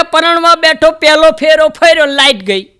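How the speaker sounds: high, loud fed-up complaint; exasperated groom. Retold or imitated. Newlywed groom complains to the comedian, high and exasperated. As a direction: wave it off, fed up. Groom retelling his wedding.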